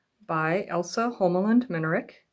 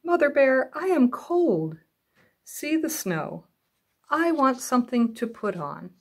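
small cub asking, higher pitched; a child bear saying he is cold, voiced higher; higher little bear voice; 5 semitones higher than usual. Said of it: "Little Bear said".

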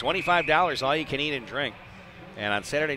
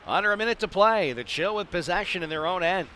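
excited; 5 semitones higher than usual. Real, not acted. Clock winding down late in the game.

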